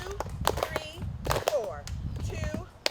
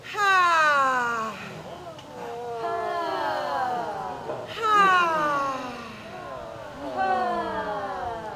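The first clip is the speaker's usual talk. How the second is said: relaxing ha exhale; 5 dB louder, much slower than usual. Shown as a demonstration. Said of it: "Take a breath in and say".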